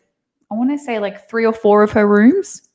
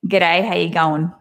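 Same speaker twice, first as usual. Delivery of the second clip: Australian accent. Shown as a demonstration. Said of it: "So we'll say".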